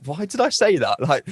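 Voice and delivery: cringing in the shower after a party joke; exasperated self-reproach. Retold or imitated. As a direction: replay the awkward moment with a half-laughing groan. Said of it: "I'm like".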